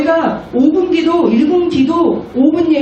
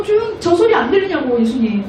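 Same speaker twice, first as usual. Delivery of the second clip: mock indignant priest. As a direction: whine angrily about the noise. Angry priests complain to Jesus.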